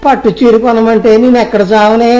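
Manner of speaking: scolding wife, pitch climbing as he rants; exasperated nagging at his spendthrift wife; angry husband. Acted. Moneylender scolds wife Kamakshi over saris, angry.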